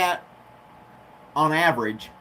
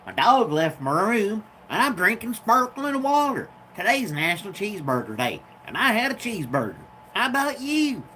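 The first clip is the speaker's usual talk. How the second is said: lightly raised, bouncy vlog greeting voice; put-on high chirpy voice; 5 semitones higher than usual. Shown as a demonstration. Vlogger greeting his viewers in a mock perky higher voice. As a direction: play a perky little host voice. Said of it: "Imagine if I talked like that all the time".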